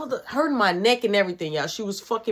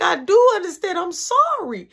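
retold pleading apology; 8 semitones higher, 6 dB louder than usual.

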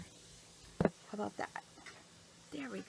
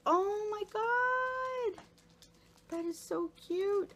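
very high, slow squeal; squealing delight; 9 semitones higher, 4 dB louder, slower than usual. Real, not acted. Seeing her friend's handmade gift, a high squealing oh my God. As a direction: squeal it like you can't believe it.

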